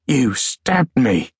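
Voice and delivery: slow, mildly astonished; a touch of stunned disbelief, slow; dying soldier realises he was stabbed, slow and astonished. Acted. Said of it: "The soldier sounded astonished".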